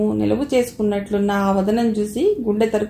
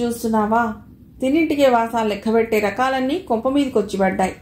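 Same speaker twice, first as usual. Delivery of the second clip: scolding aunt; 2 semitones higher than usual. Acted. Anasuya scolding Madhav.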